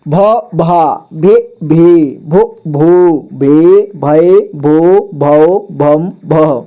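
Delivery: slow, sing-song syllable recitation; slow teacher drill chant. Shown as a demonstration. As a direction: chant each syllable out for the class. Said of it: "अगला".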